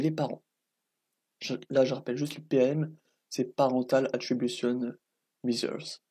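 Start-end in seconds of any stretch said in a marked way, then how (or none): 3.4-6.0 slow English words in a thick French accent; bad English accent. Real, not acted. Student reading an English test name in French-accented English. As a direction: read the English title slowly, heavy French accent. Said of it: "Avec mon accent anglais, plus que dégueulasse".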